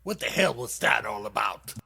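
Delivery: loud, put-on little snail voice. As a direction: play the indignant snail. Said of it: "Snail looking him in the eye and said".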